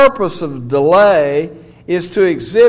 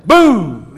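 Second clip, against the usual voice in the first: a sportscaster's punchy "Boom!" cut short; John Madden's boom; 2 semitones higher, 5 dB louder than usual. Retold or imitated. Preacher imitating the announcer's tackle call, punchy boom. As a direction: bark the boom like a football announcer. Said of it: "And he'd say".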